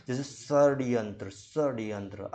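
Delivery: षड्यंत्र said slowly, tongue curled back on ष; retroflex sh demo. Shown as a demonstration. Teacher asking students to say षड्यंत्र. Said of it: "आप बोल के देखो".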